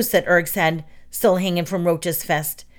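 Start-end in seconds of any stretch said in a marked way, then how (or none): none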